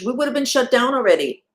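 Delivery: high, loud, running straight through; emphatic. Real, not acted. Repeats the line for emphasis.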